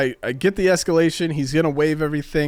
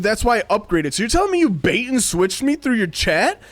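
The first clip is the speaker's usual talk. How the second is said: heated complaint; 5 semitones higher than usual. Retold or imitated. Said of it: "I'm, like, getting animated".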